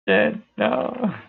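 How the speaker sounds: high-pitched wail of dismay; mock dismay. Streamer sees viewers leaving, high mock-dismayed cry. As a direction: let "no" leap up high, then drop. Reacting to viewer count dropping.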